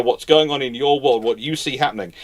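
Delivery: ordinary talk, nothing marked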